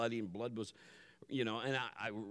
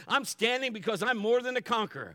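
high, loud declaration of faith; ringing, forceful pulpit proclamation; climactic preaching; 8 semitones higher, 8 dB louder than usual. Real, not acted. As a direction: build to a shouted sermon climax.

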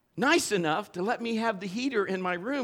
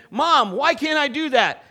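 put-on higher, louder, slow whine of a kid asking Mom; whiny child; 8 semitones higher, 9 dB louder than usual. A kid pestering Mom for a reason, slow loud whine.

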